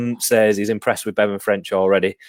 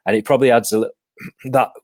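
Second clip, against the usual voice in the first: choking; 2 semitones higher, faster than usual. Real, not acted. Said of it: "sorry, I'm choking".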